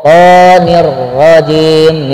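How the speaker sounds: "To" said thick and full, lips not rounded; heavy to. Shown as a demonstration. Teacher shows the heavy letter to, slow and clear. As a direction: thicken the "To" without pouting. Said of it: "tapi to".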